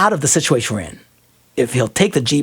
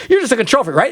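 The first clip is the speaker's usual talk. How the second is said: mock accusation; 5 semitones higher, faster than usual. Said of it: "something that most people would consider an insult".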